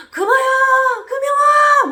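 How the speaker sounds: loud, high call for a daughter; father shouting his child's name; re-enacted full-voiced calling. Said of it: "이러고 부르는 거예요".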